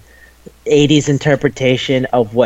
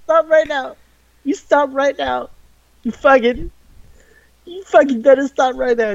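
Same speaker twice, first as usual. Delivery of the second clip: outraged yell; 11 semitones higher than usual. Real, not acted. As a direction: yell at the screen to make it stop. Mock outrage at the show.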